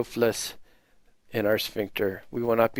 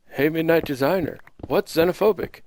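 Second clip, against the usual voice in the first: higher-pitched mock questioner; raised, lilting mock query; imitated viewer comment; 5 semitones higher than usual. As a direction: put on a naive commenter's voice. Voices an imagined viewer comment.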